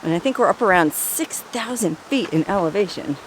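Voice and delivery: winded from the hike; out of breath. Real, not acted. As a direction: talk between heavy breaths. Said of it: "I'm actually pretty winded".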